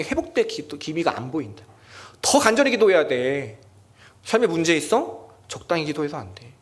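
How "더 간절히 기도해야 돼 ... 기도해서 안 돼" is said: urgent exhortation. Acted. Preacher voicing God's urging.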